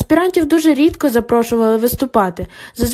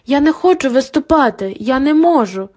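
panicky; 3 semitones higher than usual. Acted. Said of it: "але впоралася лише з панікою".

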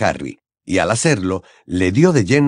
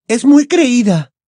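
scornful; 6 dB louder, slower than usual. Acted. Hermione scornful.

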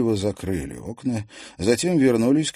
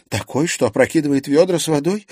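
higher, louder sceptical question; disbelieving; 8 semitones higher, 5 dB louder than usual. A narrator's reading. Liza doubts a draught tipped the buckets, disbelieving. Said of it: "не поверила ей Лиза".

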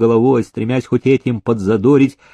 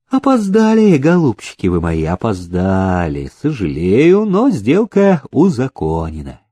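sweet ingratiating voice. Acted. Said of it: "вкрадчивым сладким голосом".

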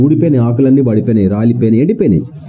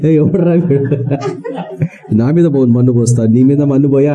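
sister's mock retort; 3 semitones lower than usual. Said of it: "sister అయితే అంటది అట్లనే".

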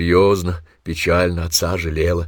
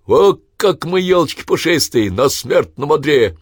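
high, loud gleeful crowing; jubilant; 8 semitones higher, 6 dB louder than usual. Acted. Son gloats over father's deathbed joke, high loud glee. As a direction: crow with delight. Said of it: "Череп ликовал".

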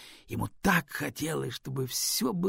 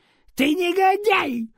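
much higher, loud, drawn-out cry; shouted; 9 dB louder, slower than usual. Acted. Raven shrieks an insult at the Stone. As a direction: hurl the insult at the top of the voice. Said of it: "выкрикнул Ворон".

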